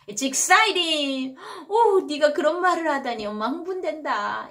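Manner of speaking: thrilled mother, pitched high; excited praise. Acted. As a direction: gush to your child in a high voice. Acting a thrilled mother praising child.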